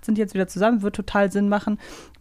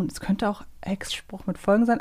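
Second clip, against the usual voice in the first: whispered musing; 5 dB quieter than usual. Real, not acted. Guessing aloud, muttering to self.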